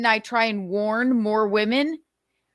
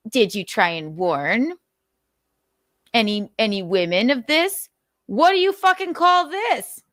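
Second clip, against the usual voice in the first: mocking quote. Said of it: "comes in".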